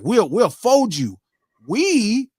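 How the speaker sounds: slow imitation of a rapper's put-on accent; mock put-on accent. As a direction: draw it out, imitating his fake accent. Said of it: "when he was using that accent".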